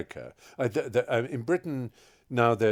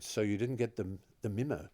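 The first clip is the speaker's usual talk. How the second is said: deadpan Kiwi director's question; New Zealand accent; 6 dB quieter than usual. Retold or imitated. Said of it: "That's the New Zealand accent, brilliantly done".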